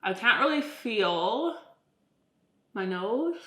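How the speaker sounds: talking through swollen lips and jaw; numb, swollen face after jaw surgery; swollen mouth. Real, not acted. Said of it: "This is what I sound like".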